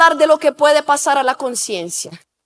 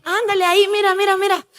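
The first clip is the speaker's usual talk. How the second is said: higher-pitched imitation of pushy friends; coaxing friends; 4 semitones higher than usual. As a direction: tempt him, pressing and playful. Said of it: "Y está con los amigos y dicen". (amigos insistentes, imitados con voz más aguda)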